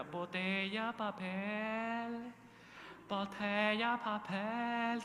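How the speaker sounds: high, drawn-out vendor's call; recyclers' street cry. Retold or imitated. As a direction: imitate a recycler calling out for scrap. Imitating street recyclers' calling cry. (pregón callejero de reciclador)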